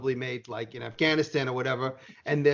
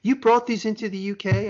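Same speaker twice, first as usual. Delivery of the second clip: higher-pitched incredulous official; mock disbelief; 7 semitones higher than usual. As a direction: imitate a woman questioning in disbelief. Retells customs woman's disbelief.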